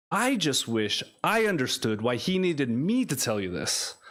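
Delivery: spoken-word storytelling in rhythmic phrases; poetry reading. Acted. Poet recounts a dream about someone's boyfriend, cadenced recital. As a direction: recite with lilting emphasis and deliberate pauses. Continues second poem aloud.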